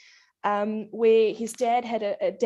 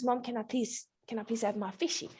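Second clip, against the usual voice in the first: put-on softer, pleading little boy; pleading child; 7 dB quieter than usual. Son softly begging his mom for his fish oil. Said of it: "he says".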